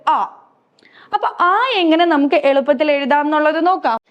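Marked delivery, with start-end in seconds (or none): 0.1-0.3 a long open Hindi vowel ആ, held clearly; pronunciation demo. Shown as a demonstration. Teacher modelling the sound ആ for her pupils, slow and clear. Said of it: "ഇവിടെ miss pronunciation കൊടുത്തിട്ടുണ്ട്".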